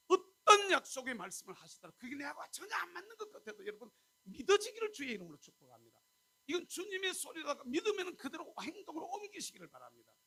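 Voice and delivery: loud, high preaching with a laugh; full-force preaching. Acted.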